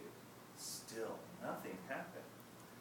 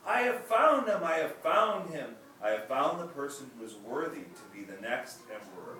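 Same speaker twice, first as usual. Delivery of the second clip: joyful loud proclamation, much higher at first; exclaimed; 5 semitones higher, 9 dB louder than usual. Acted. Emperor announces to all the children, joyful loud exclaim. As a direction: shout it out to the whole court, delighted. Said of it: "he exclaimed to one and all".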